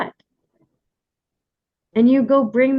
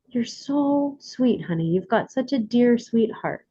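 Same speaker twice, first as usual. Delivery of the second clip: gentle soothing; 4 dB quieter than usual. Retold or imitated. Mother soothing her son.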